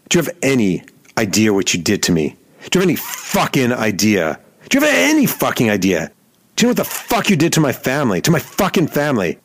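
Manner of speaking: rising mock fury, fairly high; building angry rant; imitating angry yell. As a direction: retell the athlete's rage, building. Rocker yelling in his face.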